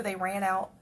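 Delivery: ordinary delivery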